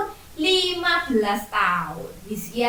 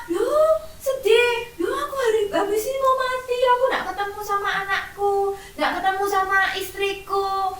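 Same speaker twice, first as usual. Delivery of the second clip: much higher, wailing mock sob; crying king; 7 semitones higher than usual. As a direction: cry it out like a tearful child. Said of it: "Sedih atau seneng?".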